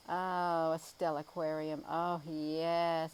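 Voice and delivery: light up at the idea; excited. Real, not acted. Delighted by a chat suggestion.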